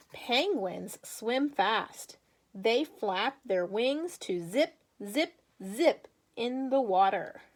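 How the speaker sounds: put-on slow, clear read-aloud for young kids; reading to children. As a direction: read it slowly, like a picture book for little ones. Teacher reads picture book aloud.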